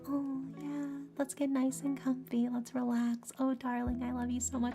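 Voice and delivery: soft, high-pitched cooing to a darling; cozy ASMR roleplay. Acted. Streamer parodies the start of a boyfriend roleplay, cozy and soft. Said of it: "just 'cause I started off cozy".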